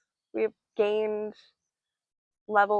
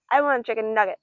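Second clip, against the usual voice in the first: mock kid demanding nuggets, a little louder; childish whine; 6 dB louder than usual. Picky child demanding nuggets, mock whine. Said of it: "some childish energy that's like".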